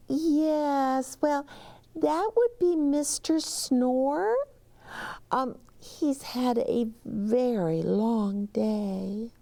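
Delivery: high, apologetic bellhop; high polite bellhop; bellhop reply. Acted. Bellhop answers.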